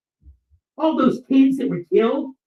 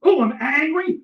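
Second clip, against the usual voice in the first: sarcastic echo; 3 semitones higher than usual. Real, not acted. Sarcastically echoing an accusation.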